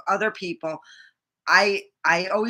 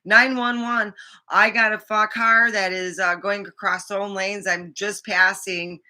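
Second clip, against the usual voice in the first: urgent phone call; 2 semitones higher, 3 dB louder than usual. Retold or imitated. Retold frantic 911 call.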